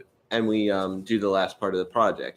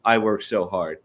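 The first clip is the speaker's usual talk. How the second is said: self-pitying woe-is-me whine; mock your own complaining; mock dramatic sigh. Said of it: "it's not the".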